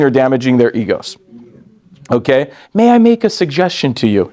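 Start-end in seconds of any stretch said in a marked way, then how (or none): 2.7-4.3 polite suggestion. Retold or imitated. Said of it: "You ever see somebody say this?".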